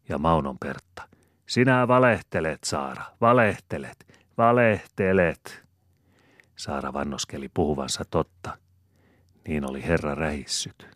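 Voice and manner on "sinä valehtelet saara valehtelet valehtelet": much higher and louder, last word slow; teasing "you're lying!"; incredulous accusing outburst; excited disbelief. Acted. Pertta disbelieving Saara's gossip.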